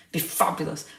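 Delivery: soft breathy aside, barely voiced; whispered echo. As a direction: whisper it to yourself, dreamily. Wistful echo of own words.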